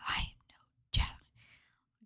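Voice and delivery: slow, hushed, breathy-free whisper; imitating Ahsoka's whisper. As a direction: whisper it slowly, cold and final. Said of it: "and she goes".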